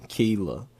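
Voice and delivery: Kayla pronounced KEE-la. Shown as a demonstration. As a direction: say Kayla with a long ee. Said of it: "K E H".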